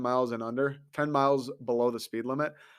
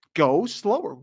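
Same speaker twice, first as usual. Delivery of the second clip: louder mock order; 5 semitones higher, 5 dB louder, slower than usual. Mock instructor repeating order.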